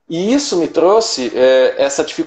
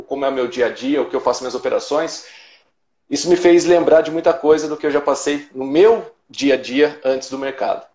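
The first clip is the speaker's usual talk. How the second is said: ordinary talk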